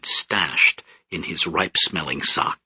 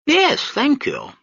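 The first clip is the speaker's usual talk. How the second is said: pompous British major; slower than usual. Acted. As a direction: sneer down at the crowd from the deck. Major accepting cognac.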